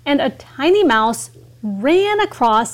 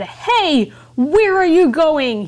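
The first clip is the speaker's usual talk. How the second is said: lion's call; 4 semitones higher than usual. Acted. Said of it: "the lion woke up and said".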